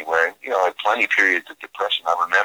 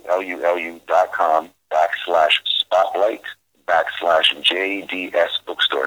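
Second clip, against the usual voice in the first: spelling it out; slower than usual. Shown as a demonstration. Dictating a web address.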